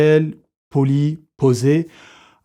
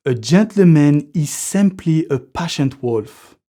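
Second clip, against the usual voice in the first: slow English quote in a French accent; slower than usual. Shown as a demonstration. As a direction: recite it slowly with a French accent. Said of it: "mon accent pourri". (citation anglaise lente avec l'accent français)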